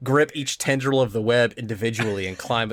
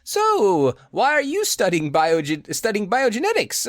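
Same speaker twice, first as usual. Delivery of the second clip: roommate voice; 9 semitones higher than usual. Retold or imitated. Voicing the college roommate.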